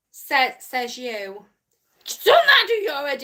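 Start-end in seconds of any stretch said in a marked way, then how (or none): 0.1-1.5 "Says, says you" drawn out slowly as "sez"; "Says" as "sez", slow and teasing. Shown as a demonstration. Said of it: "you love the way I say says".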